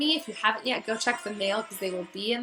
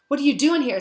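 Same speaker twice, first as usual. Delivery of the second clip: furious; 6 semitones higher, 7 dB louder than usual. A narrator's reading. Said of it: "said Hagrid furiously".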